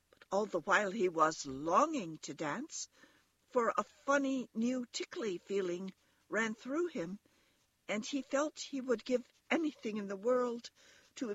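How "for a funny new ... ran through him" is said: plain reading voice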